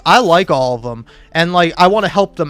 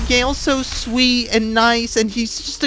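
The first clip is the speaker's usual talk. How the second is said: a lightly higher, whiny defender's voice; mocking Gale fans; 7 semitones higher than usual. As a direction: mimic the naive fans. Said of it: "being like".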